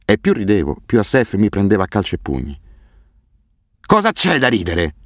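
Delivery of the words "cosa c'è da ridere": slow, higher menacing roar; a madman roaring over each punch. A narrator's reading. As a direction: Asef roaring at his beaten victim, slow and unhinged. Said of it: "ruggiva a ogni colpo".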